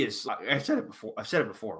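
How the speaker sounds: a real crack in an emotional voice. Real, not acted. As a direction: voice breaks mid-sentence. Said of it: "Ooh, voice crack".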